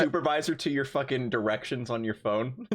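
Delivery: hammed-up yell at the GPS; mock screaming. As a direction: yell like a driver losing it.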